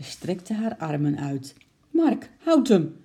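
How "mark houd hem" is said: loud, high, drawn-out order; urgent call. A narrator's reading. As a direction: call out urgently to stop a runaway. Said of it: "riep moeder". (dringend roepend)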